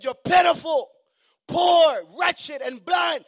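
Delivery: loud, high, slow declaration; loud high preached scripture, slow at the end; shouted scripture. Acted. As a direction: thunder the verse at the church. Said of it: "He said".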